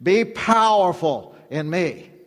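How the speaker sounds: slow, deliberate voice of God; God speaking. Acted. God telling the congregation today, slow and commanding. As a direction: lay each word down slowly. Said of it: "God is saying to you today".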